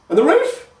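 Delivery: high, loud hag voice, scornful; scolding old grandma. A narrator's reading. Grandma scolding Pike, voiced as a shrill old crone. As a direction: scold the idiot boy in a crone's cackle.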